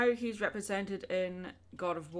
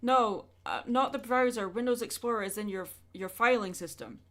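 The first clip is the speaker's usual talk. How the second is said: louder, insistent no, not the browser; exasperated correction; 3 semitones higher, 6 dB louder than usual. Real, not acted. Streamer correcting chat about the browser, louder and exasperated.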